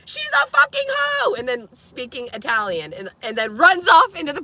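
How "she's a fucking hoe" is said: mock taunt. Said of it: "This guy's calling me a hoe".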